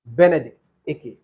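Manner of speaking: name run together as one; quick, run together. Shown as a demonstration. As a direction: say both names in one quick go. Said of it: "if you're fast, it might appear like one name".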